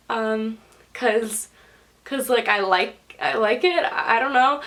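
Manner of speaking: halting, unsure reply with restarts; nervous. Retold or imitated. Patient asked why the hair colour, nervously stammering. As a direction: stammer out an awkward excuse, mildly acted. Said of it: "I was just so nervous".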